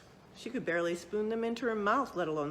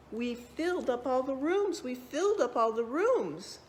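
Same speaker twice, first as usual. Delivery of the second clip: excited cheer; 6 semitones higher, 3 dB louder than usual. A narrator's reading. Children's triumphant announcement.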